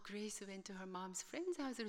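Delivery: very slow, careful repeat of the student's words; slow teacher echo. Retold or imitated. Teacher reflecting the student's words back to class, slow and careful. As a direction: echo back her sentence patiently. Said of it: "선생님이 나오시더니".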